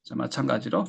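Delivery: ordinary delivery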